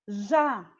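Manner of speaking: "Já" as one stressed beat, open á; said with force. Shown as a demonstration. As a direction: put force on "Já", mouth open. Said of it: "com força".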